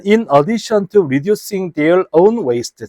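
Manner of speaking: English read out very slowly, word by word. Shown as a demonstration. Teacher reading the English sentence to students, very slowly. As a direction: spell the phrase out slowly for the class. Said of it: "reading English text slowly to class".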